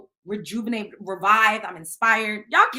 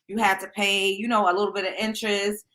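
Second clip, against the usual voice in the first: mock sorry apology; 3 semitones lower than usual. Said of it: "And I would be like".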